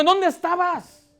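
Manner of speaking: high, drawn-out indignant demand; bad attitude. Martha confronting the Lord, high and accusing. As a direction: demand an explanation, pitched high. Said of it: "una mala actitud, diciendo".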